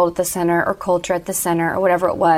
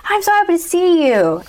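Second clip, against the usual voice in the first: high, delighted retold greeting with a huge smile; beaming happy father; 10 semitones higher, 4 dB louder than usual. Father greeting the runaway at the door, beaming and high-pitched. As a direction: voice the dad's joy, pitched way up. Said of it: "he's got the hugest smile on his face".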